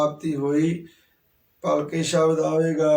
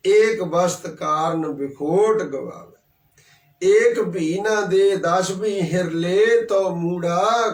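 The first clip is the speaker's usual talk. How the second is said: scripture recitation; 2 semitones higher than usual. Acted. Preacher quotes scripture verse.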